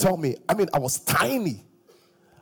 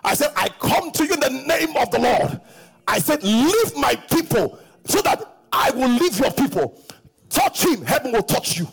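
commanding retold challenge; 6 semitones higher than usual. Retold confrontation.

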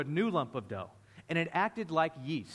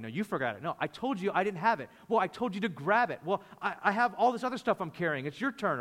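mock arguing; 3 semitones higher than usual. Disciples blaming each other over forgotten bread, mock arguing. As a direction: bicker back and forth in pretend annoyance. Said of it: "they're in the boat all arguing".

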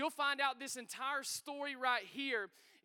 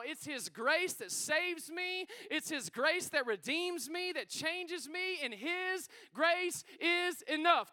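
slow preaching build; 3 semitones higher, slower than usual. Acted.

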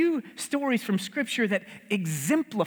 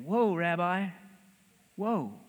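mock startled disciple; 2 semitones lower, 3 dB quieter than usual. Disciples startled by Jesus washing feet.

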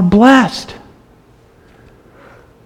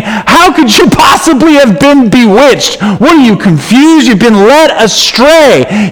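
higher, a touch of mock anger; imitating a mild yell; 5 semitones higher than usual. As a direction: rebuke the straying churches, retold and understated. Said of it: "He's yelling at these guys".

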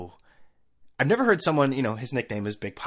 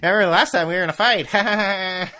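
higher, louder, fast laughing through the words; fast nervous chuckling chatter; 10 semitones higher, 9 dB louder than usual. Retold or imitated. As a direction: fake a jittery laugh to break the tension. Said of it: "nervous laugh".

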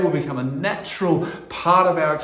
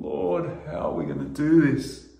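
crying out to God; 3 semitones higher than usual. Retold or imitated. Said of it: "just crying out to God".

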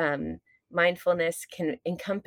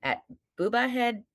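mock rage; 4 semitones higher than usual. Shown as a demonstration. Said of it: "I'm gonna drop the F-bomb".

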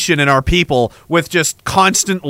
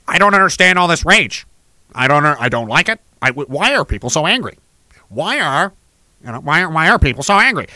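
lower, baffled mock whine; clueless guy; 3 semitones lower than usual. Idiot boyfriend puzzled why his wife is mad, mock baffled voice. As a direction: play dumb, honestly puzzled by the anger. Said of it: "go right over their head".

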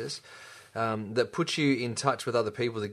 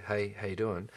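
a lower, softer, unenthused hello; flat greeting; 3 semitones lower, 6 dB quieter than usual. Shown as a demonstration. Showing how not to greet a friend, flat and dull. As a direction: toss off the greeting like you barely care. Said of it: "Don't just go".

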